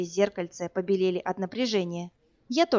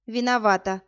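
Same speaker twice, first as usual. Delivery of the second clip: snapping back; 3 semitones higher, 4 dB louder than usual. Acted. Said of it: "огрызнулась она".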